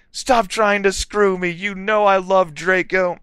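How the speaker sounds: high-pitched angry protest; shouted. A narrator's reading. Girl rejecting Vampire's advances, high shouted protest. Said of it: "I shouted".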